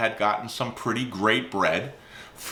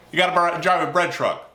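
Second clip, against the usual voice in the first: put-on dad's Italian accent; 7 semitones higher, 3 dB louder than usual. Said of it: "my dad's accent".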